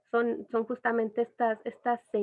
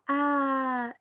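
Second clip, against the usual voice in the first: put-on baby coo; 3 semitones higher than usual. Shown as a demonstration. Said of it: "El arrullo es como".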